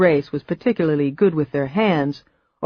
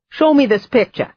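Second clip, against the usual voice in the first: put-on high, louder cackling old aunt; impatient old woman; 8 semitones higher, 4 dB louder than usual. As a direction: hurry them along like a gruff old witch. Old woman demanding photo.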